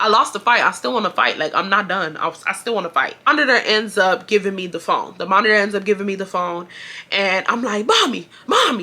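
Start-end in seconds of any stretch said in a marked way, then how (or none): 7.9-8.8 yelling, calling out loud. Retelling being handed the phone after losing a fight, retelling yelling for mom. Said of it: "that's how I'm yelling on the phone".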